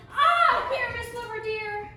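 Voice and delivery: high, tiny lady voice for Thisbe; monstrous little voice. Acted. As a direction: squeak it out like a dainty lady. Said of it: "I'll speak in a monstrous little voice".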